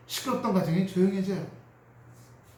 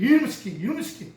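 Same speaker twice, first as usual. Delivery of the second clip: mock gruff scold, louder; dad's scolding; 7 semitones higher, 4 dB louder, faster than usual. Boy imitating his father scolding mother, mock angry. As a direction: bark it like a boy copying his dad. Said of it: "아빠가 엄마한테 맨날 하는".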